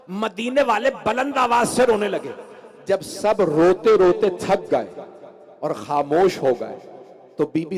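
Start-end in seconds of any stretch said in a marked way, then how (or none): none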